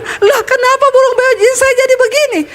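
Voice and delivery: high, dismayed pastor's cry; a pastor shocked at his parrot; exasperated pastor. Acted. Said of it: "Pak Pendeta bilang". (pendeta kaget dan kesal, suara tinggi)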